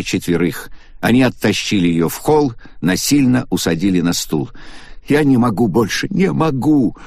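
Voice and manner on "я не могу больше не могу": higher, breaking down; despairing cry. A narrator's reading. Агата срывается. (Агата в отчаянии сдаётся)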